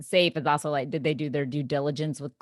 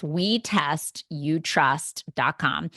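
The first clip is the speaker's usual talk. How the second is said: spelled out slowly; much slower than usual. Shown as a demonstration. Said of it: "repeating the website".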